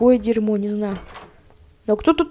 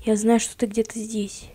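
whisper; 5 dB quieter than usual. Pretend. Whispering to hidden monster.

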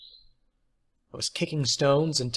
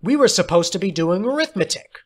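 shouting; 6 semitones higher, 6 dB louder, faster than usual. A narrator's reading. Boys quarrel.

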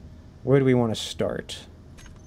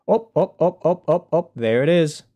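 quick high, louder repeated ups; excited spotting; 5 semitones higher, 5 dB louder than usual. Real, not acted. Streamer spots the searched-for object, excited and high. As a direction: pipe up suddenly as it comes into view.

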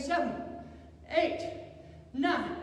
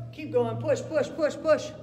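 loud coaching; 6 dB louder than usual. Real, not acted. Fitness coach calling out reps.

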